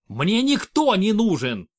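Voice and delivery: slow, loud, furious bark; barked outburst. Acted. Regent barks at his friend to leave, loud and furious. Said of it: "рявкнул Руди".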